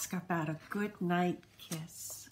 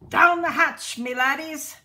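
loud, higher pirate bellow; yelled; 5 semitones higher, 8 dB louder than usual. A narrator's reading. Braidbeard toasting his crew at dinner, loud yell. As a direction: roar it while pounding the table. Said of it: "pounded his fist on the table and yelled".

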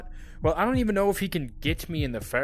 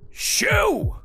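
panicked high shouting; slower than usual. Real, not acted. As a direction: scream at him to get off. Dad glued to him, attacking.

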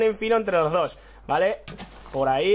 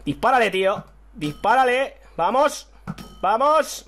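excited shout; 6 semitones higher than usual. Real, not acted. Urging during a fight.

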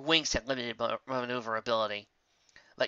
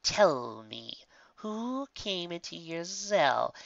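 menacing whisper; 5 semitones higher, much slower than usual. A narrator's reading. Villain interrogating menacingly.

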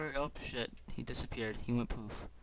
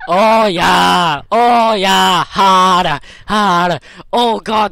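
mock orgasm moans; 2 semitones higher, 7 dB louder, much slower than usual.

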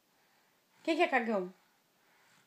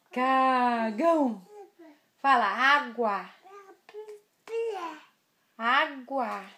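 words muffled behind a hand; hand over mouth; 3 dB quieter, much slower than usual. Real, not acted. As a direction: talk through covered mouth. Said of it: "Tira a mão da boca pra falar".

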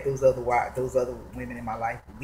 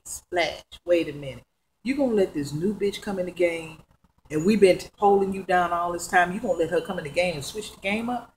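mild indignation, slightly raised voice; retold pissed-off girlfriends; 3 semitones higher than usual. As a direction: act out girlfriends' complaint with a touch of anger. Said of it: "they was so fucking pissed off".

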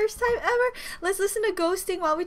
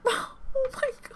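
laughing cry; 8 semitones higher, 6 dB quieter than usual. Real, not acted. Broken headphones dismay.

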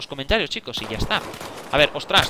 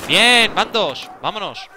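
loud, higher, slow drawn-out cheer; triumphant; 6 semitones higher, 6 dB louder, much slower than usual. Real, not acted. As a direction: savour the kill out loud. Scores a second kill.

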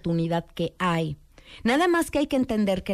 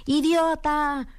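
a stretched, slow, higher yell; hammed-up teenage yell of the insult; retold teen shout; 7 semitones higher, much slower than usual. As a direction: shout the insult into the cave like a brat. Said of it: "gritó una grosería".

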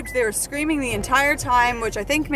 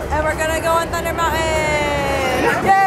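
excited shout; 2 semitones higher than usual. Real, not acted. Group reunited, cheering.

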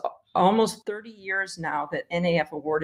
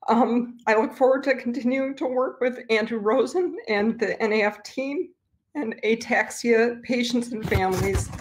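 getting emotional; 4 semitones higher than usual. Real, not acted. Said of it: "I'm getting emotional".

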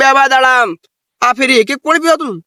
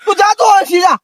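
shouting away; 5 semitones higher than usual. Acted. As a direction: yell at him to go home. Shooing away scared companion. (ગુસ્સામાં બૂમ)

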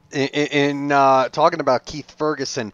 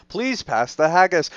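put-on Scottish accent; 4 semitones higher than usual. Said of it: "get the Scottish accent".

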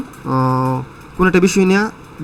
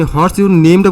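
puzzled student echoing "What's your name-টা" with a rising end; unsure student echoing the question; confused echo; 5 dB louder, much slower than usual. Shown as a demonstration. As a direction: repeat the question back, unsure. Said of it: "বুঝছেন না".

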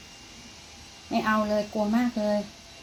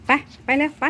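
higher, louder hurry-up call; urging the cat; 7 semitones higher, 8 dB louder than usual. Real, not acted. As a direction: chivvy the cat along.

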